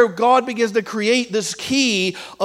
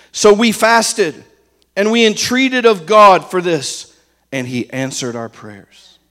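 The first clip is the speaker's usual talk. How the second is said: slow, louder, weighty reading of the verse; solemn scripture reading; 4 dB louder, slower than usual. Acted. Preacher reads Ezra's words to the congregation, slow and solemn. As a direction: read it like holy writ, slow and deliberate.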